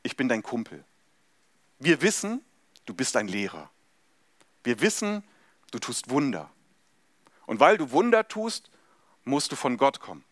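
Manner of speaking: overly familiar flattery, rising and falling eagerly; a light mock of a pushy acquaintance sucking up; mock chummy act. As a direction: schmooze him like an old pal you just met. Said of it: "macht erstmal mit Jesus einen auf".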